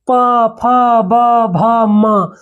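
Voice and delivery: प फ ब भ म very slow, lips pressed together; labial sounds demo. Shown as a demonstration. Teacher shows pupils the lip letters, slow and clear. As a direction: sound out प फ ब भ म slowly with closed lips. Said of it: "जब प फ बोलिएगा ना".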